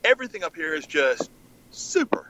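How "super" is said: breathy high super. Real, not acted. Emphatic praise.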